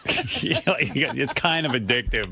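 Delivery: slow, mocking take on a vague doctor; lightly voiced doubtful doctor. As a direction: drag it out like you're parroting the quack.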